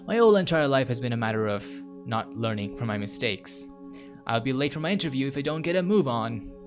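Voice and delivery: chatty, theatrical inner monologue; storytelling read with a light dramatic lilt; lightly voiced game protagonist. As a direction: read it as a character musing to themself. Reads game protagonist's monologue aloud.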